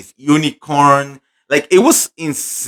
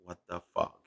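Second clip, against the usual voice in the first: Ariana's shocked reaction; 6 semitones lower, 19 dB quieter, faster than usual. Retold or imitated. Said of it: "she was like".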